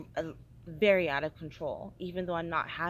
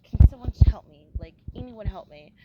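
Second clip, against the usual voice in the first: loud plea into an empty bar; half-shouted cry for help; calling out for help; 16 dB louder than usual. Retold or imitated. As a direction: call out to anyone in the room.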